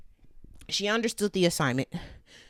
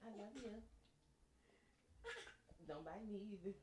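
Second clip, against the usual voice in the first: tender murmur; 31 dB quieter, much faster than usual. Real, not acted. Tender words to nursing baby.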